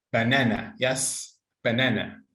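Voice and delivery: "banana" with the middle syllable stressed; word stress. Shown as a demonstration. Teacher confirms a student's answer, "banana" stressed in the middle. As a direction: lean on the second syllable of "banana". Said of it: "try to stress the words".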